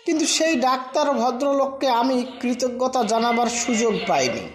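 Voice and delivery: ordinary delivery, nothing marked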